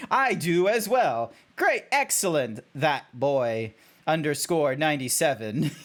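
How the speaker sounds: stilted, mock-formal reply; over-enunciated zebra, close to laughing; robotic zebra. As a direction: answer in a deliberate, swooping character voice. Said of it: "being the robotic zebra".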